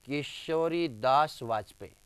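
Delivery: name spaced out word by word; slow dictation. Shown as a demonstration. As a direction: draw the name out slowly for the class. Teacher dictates name slowly, then repeats.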